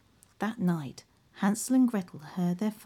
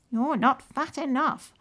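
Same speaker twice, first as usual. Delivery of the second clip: high, cackly witch complaint; 7 semitones higher, 4 dB louder than usual. Acted. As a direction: grumble like a hungry witch. Witch voiced, high, far.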